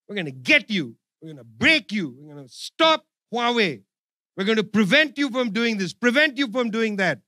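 mock tough-guy threats; tough talk. Imitating Obama-era tough talk toward China. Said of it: "attempt to just talk tough with China".

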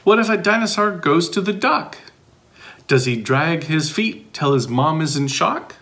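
put-on lively read-aloud for young listeners; bouncy picture-book reading; reading to children. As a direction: read it like story time for kids.

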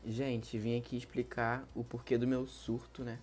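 acted sadness. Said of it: "vamos aqui incorporar no teatro".

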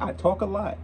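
chuckling through the admission; laughing. Real, not acted. Reactor laughing at himself to viewers, laughing. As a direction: laugh as you own up to it. Admitting he talks a lot.

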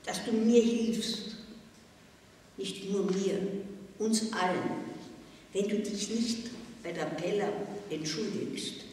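leiser, ernst und eindringlich; leise Bitte. A narrator's reading. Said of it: "Dann sagte sie leise". (die Direktorin bittet Susi leise und eindringlich)

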